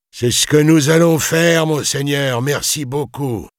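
high, strained deference, fading at the end; toneless fearful voice. A narrator's reading. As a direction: give in fearfully and politely. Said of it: "répondre d'une voix blanche". (voix blanche, obséquieuse et tendue)

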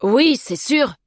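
unbothered, lively reply; casual chatter. A narrator's reading. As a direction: brush it off chattily. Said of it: "continuant à bavarder avec naturel".

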